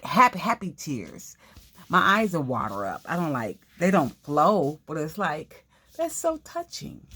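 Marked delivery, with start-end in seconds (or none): 6.0-7.0 high, gushing mock voice. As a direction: squeal it like it moves you to tears. Mimicking being moved.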